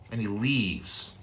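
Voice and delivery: slow, dropped quiet repeat; soft and low. Shown as a demonstration. Preacher echoing the exit, soft and slow. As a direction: let it fall away softly. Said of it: "repeated for effect".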